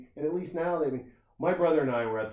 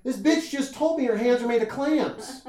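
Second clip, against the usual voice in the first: high and louder, laughing through the words; laughing disbelief; 12 semitones higher, 6 dB louder than usual. Retold or imitated. Telling the podcast host about the clam lady, laughing. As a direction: blurt it out while cracking up.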